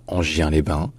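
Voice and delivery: Angien-les-Bains said "an-jyin-lay-ban"; the mistaken soft-g reading of Angien-les-Bains; mispronounced with soft g. Shown as a demonstration. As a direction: read Angien-les-Bains with a French j and glide. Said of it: "ça ne se dit pas".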